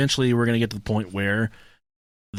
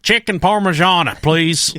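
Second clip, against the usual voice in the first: loud, higher over-the-top order; hammy Italian order; 4 semitones higher, 4 dB louder than usual. Pretend. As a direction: order it like a big Italian diner. Hammed-up restaurant order.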